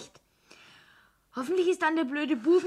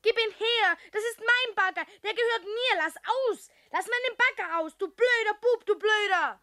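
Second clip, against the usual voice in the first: put-on angry child; 3 semitones higher than usual. Child fighting for her digger.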